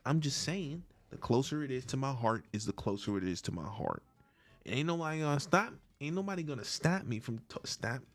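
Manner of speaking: Ray J voice. Pretend. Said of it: "Okay, losing the bit".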